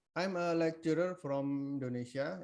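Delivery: faint and far from the mic; barely audible. Real, not acted. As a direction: voice too low to hear. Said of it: "your voice is very low".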